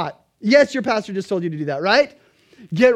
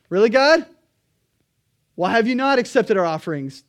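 mock indignant; 5 dB louder than usual. Israel talking back to God.

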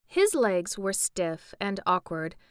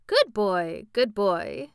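coaxing; 3 dB louder, slower than usual. A narrator's reading. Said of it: "in a coaxing tone".

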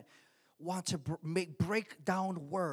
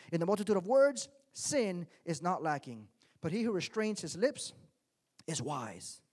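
scripture reading. Acted. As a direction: read the proverb with weight.

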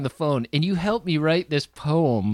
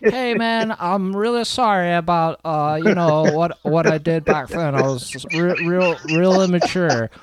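apologetic guy; 4 semitones higher than usual. Retold or imitated. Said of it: "and he goes".

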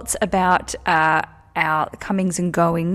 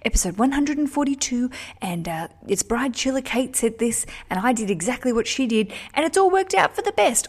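retold listener email; 5 semitones higher than usual. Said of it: "your emails in response saying".

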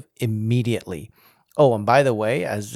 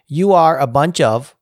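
louder, punched email quote; all-caps emphasis; 6 dB louder than usual. Retold or imitated. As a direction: read out a capitalized rebuke. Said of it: "in all caps".

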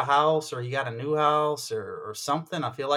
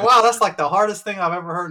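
mock amazement; 6 semitones higher, 7 dB louder than usual. Mock reaction to the guy.

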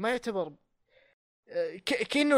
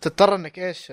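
asking again louder; louder repeat; 7 dB louder than usual. Real, not acted. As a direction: raise the voice to be heard. Repeats louder, unheard question.

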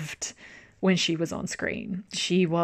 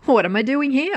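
confused wake-up; 7 semitones higher, 6 dB louder than usual. Retold or imitated. Gaon waking confused in mansion.

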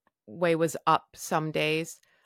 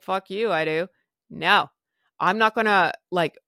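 retold defiance; 6 dB louder than usual. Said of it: "I was like".

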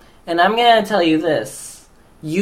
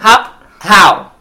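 baffled how; 2 semitones higher, 6 dB louder than usual. Acted. Baffled repeated question.

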